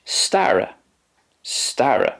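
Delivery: teacher models "stara"; Polish word modelled. Shown as a demonstration. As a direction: say "stara" twice for learners. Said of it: "and in Polish".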